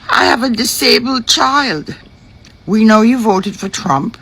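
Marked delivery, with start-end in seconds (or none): 0.1-1.9 mock crying. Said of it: "on this TikTok saying".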